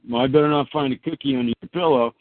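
lightly voiced parent warning a child, quick; quick mock-stern parent threat; mock parent scolding. Parent warning a child about cookies, lightly mock stern. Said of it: "when mom and dad".

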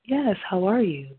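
lightly put-on business voice; controlled, polite professional phone manner, mildly acted. Shown as a demonstration. Serious business call greeting, business voice. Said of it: "in my business voice".

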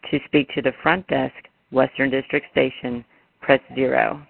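recorded automated phone menu; flat prerecorded menu prompts. Real, not acted.

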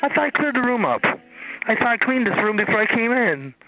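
high-pitched disbelief; shocked. Real, not acted. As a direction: react in high surprise. Shocked at nine listeners.

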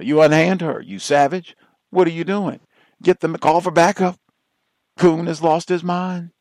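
high, loud, shrieking outrage; hammy stage actor. Retold or imitated. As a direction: ham up the scandalized lady. Acting out a white woman's reaction.

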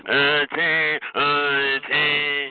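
halting mock stammer of the caller; uh day dragged out, lightly mimicked. Host repeats the caller's sound to ridicule him, mild mock stammer. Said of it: "at least mock them normally".

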